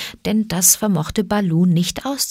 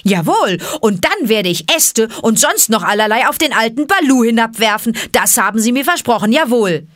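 put-on boastful boy; 5 semitones higher, 4 dB louder than usual.

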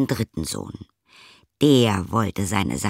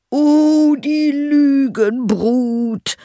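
very high, slow, loud outraged cry; angry cry; 6 dB louder, much slower than usual. Acted. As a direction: howl at the lying brood. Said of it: "rief der Schneider".

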